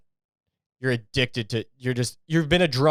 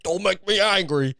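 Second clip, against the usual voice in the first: a hint of the Hulk, mock menacing; half-hearted Hulk warning; Hulk threat; 5 semitones higher than usual. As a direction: lightly growl it like the Hulk about to turn. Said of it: "almost like they wanna turn into the Hulk".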